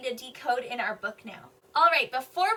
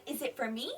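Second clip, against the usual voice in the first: softer, with "me" rising at the end; question intonation; 3 semitones lower, 7 dB quieter than usual. Shown as a demonstration. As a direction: ask it, lifting your voice on "me". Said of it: "The question said".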